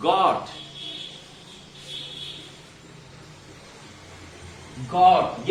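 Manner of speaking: गॉट with a short open o; short rounded got. Shown as a demonstration. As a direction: say got crisp and clipped. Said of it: "इनकी तरह आप ऐसे pronunciation". (गॉट को छोटे खुले ऑ के साथ बोलें)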